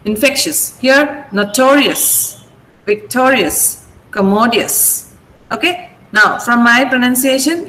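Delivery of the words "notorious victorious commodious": slow "notorious, victorious, commodious" with TO, TO, MO stressed; stress before the ending. Shown as a demonstration. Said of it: "you should mark the stress".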